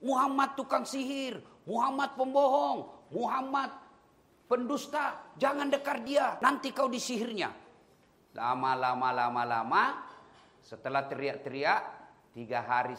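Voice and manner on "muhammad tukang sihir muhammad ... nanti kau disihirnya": higher, chanted street cries; shouting blind man. Acted. Blind Jew shouting warnings in Medina market, high calling. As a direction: call it out like a heckler in the market. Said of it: "Itu aja kerjanya".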